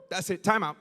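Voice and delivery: mock fed-up shout; fed-up outburst. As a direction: stop the whole room. Fed up interrupting.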